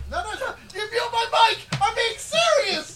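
squeaky mock earnest plea; mock serious.

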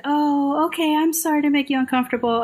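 high, rushed apology, imitated; mock apology. White lady sorry for causing discomfort, flustered. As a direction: act out her hasty backing off.

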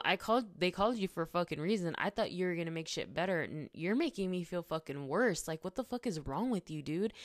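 loud, fast, furious venting; angry rant. Retold or imitated. Woman venting at the cop, loud and furious.

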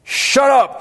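high, sharp "Shut up" bark; shouting at a bickering couple. Retold or imitated. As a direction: cut them off hard. Ghetto roots, snapping at couple.

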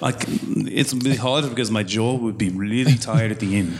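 put-on Russian accent; mock Russian-accented English. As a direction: talk with a jokey Russian accent. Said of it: "do the rest of the podcast in Russian".

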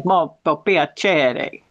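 slow, drawn-out Italian accent; Italian phrase taught slowly; demonstrating Italian. Shown as a demonstration. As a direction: show a learner the Italian, stretched out. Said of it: "So you just say".

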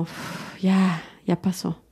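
breathy "Uf", then slow, soft "ya, ya pasó"; relieved sigh. Retold or imitated. Host relives the moment the worry lifted, with a relieved exhale. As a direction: let the breath out, then ease into it slowly. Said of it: "ese como relief, como".

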